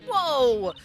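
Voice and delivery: loud whoa; surprised shout. Real, not acted. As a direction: gasp of surprise.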